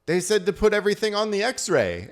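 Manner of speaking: put-on high-pitched protest of an older couple; flustered older couple. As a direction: imitate a defensive little old traveler. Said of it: "tiny older couple that were like".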